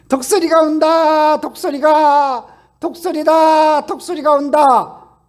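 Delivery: loud, slow, drawn-out shout that the eagle is coming; excited shout. Acted. Preacher acting out the movie's cry that the eagle is coming, with a loud drawn-out shout. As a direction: call out the eagle's arrival like a rescued hero.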